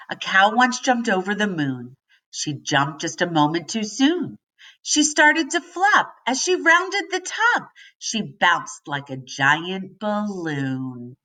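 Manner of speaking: bouncy limerick reading, lilting rhythm; poem read aloud. Acted. Teacher reading a limerick to her class, bouncy rhythm.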